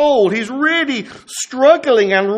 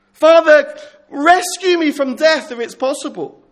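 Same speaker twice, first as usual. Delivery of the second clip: pleading cry; 4 semitones higher than usual. Acted. Jesus's desperate plea.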